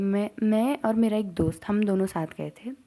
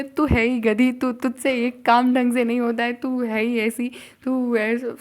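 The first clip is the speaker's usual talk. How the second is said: mock scolding; 2 semitones higher, 3 dB louder than usual. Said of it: "सब लोग मुझे ही डांट रहे हैं".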